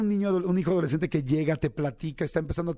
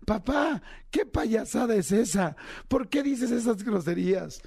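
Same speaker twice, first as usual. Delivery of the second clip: put-on child's voice; 5 semitones higher, slower than usual. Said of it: "se ríe y me dice".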